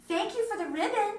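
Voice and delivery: called out. A narrator's reading. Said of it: "she called".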